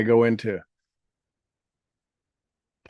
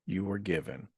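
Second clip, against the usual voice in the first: guided meditation; slower than usual. Acted. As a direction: gently lead listeners through healing words.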